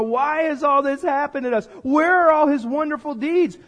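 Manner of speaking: acted accusatory grievance; blaming complaint. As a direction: demand answers as the wronged party. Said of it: "the blame game happens".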